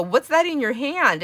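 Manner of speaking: high, loud, drawn-out fake concern; loud put-on astonishment; mock alarm. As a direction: ask slowly in pretend shock, setting up a prank. Acting out her prank question.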